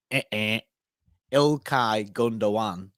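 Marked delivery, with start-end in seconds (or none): 1.3-2.9 Gundogan slowly as "GOON-do-wan", silent g; correct pronunciation. Shown as a demonstration. Correcting those who misname the player, careful pronunciation. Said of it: "is the way to say it".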